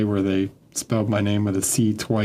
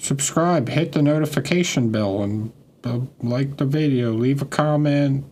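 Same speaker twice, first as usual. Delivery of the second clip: bright, hyped YouTuber outro pitch; 3 semitones higher than usual. Retold or imitated. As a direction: pitch it up like a channel sign-off. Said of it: "my best YouTuber impression".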